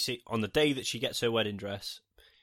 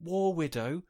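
high, loud exasperated rant; 8 semitones higher, 4 dB louder than usual. Retold or imitated. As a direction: argue it, fed up and incredulous. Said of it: "I was like".

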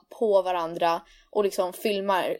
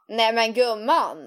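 mom's friend voice; slower than usual. Retold or imitated. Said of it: "hon får en sådär annan röst".

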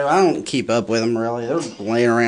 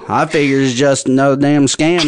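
a lightly voiced backwoods mountain man, fast; hint of a folksy hillbilly grumbling about shoes; playing up the shoeless mountain man for laughs. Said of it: "my mountain man stereotype".

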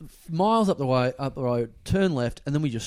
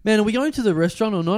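retold yell; 6 semitones higher, 3 dB louder, faster than usual. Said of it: "I start yelling at the guy".

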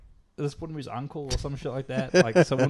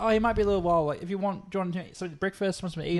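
lightly voiced old lady, raised pitch; a hint of a hospitable old lady, higher; 6 semitones higher, faster than usual. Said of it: "old multi-lady answers".

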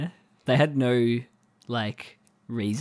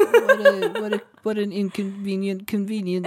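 much higher, laughing mock voice; laughing imitation; 9 semitones higher, 4 dB louder than usual. Co-host copying Jonah while laughing. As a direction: giggle through the quote. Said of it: "what did he say?".

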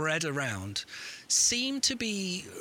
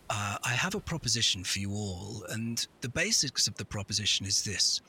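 lower, ominous hooded wizard; 6 semitones lower than usual. Acted. Wizard offers eternal life.

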